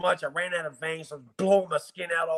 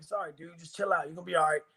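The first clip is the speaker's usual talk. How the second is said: put-on soft soothing to a child; 5 dB quieter, faster than usual. Soothing his sick son.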